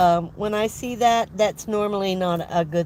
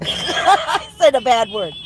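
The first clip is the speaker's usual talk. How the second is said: laughing; 4 semitones higher, 4 dB louder, slower than usual. Real, not acted. Laughs after swearing.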